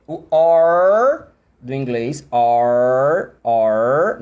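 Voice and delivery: slow "R" with the tongue curled back; a long rolled-back country R; English R. Shown as a demonstration. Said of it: "o que é que você faz com a língua quando você fala R".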